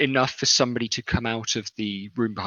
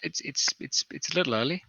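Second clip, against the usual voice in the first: put-on higher, stammering young woman; 5 semitones higher, faster than usual. Kitchen woman doubting the priest is up, young woman's voice. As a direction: hedge hesitantly in a young woman's voice. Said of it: "a young woman".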